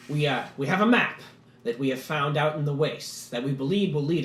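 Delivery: lightly voiced dwarf making his case; dwarf petitioner. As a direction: pitch the plan with hesitant eagerness. Gurgen petitions the council.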